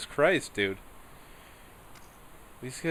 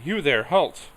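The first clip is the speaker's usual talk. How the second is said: louder, higher barked command to halt; guard's shout; 6 semitones higher, 8 dB louder, slower than usual. Acted. Guard captain halting the carriage, barking the order. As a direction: stop the carriage with a soldier's bark.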